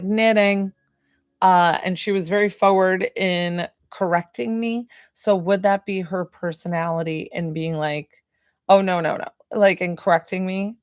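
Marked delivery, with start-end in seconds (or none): 0.0-0.7 "Knitting." said as a firm, corrective single word; firm correction. Retold or imitated. Grandma correcting the medium, firm but kind. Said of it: "She's like". 8.7-9.3 gentle, slightly louder no no no; polite correction. Retold or imitated. Grandma politely correcting her granddaughter, mild. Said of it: "but, like, politely".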